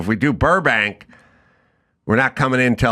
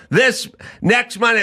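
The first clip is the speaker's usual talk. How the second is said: high mock husband reply; 8 semitones higher than usual. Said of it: "And he'll go".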